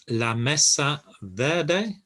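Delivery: "la mesa verde" in slow, careful Spanish; teacher sounding out "la mesa verde" slowly; Spanish pronunciation. Shown as a demonstration. Teacher modelling "la mesa verde" for learners. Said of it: "Verde, exactly the same".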